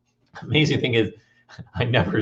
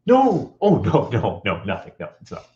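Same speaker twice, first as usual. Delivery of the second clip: exaggerated calm older brother; mock calm; 3 semitones lower than usual. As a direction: wave it away, fading to a murmur. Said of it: "very calmly says".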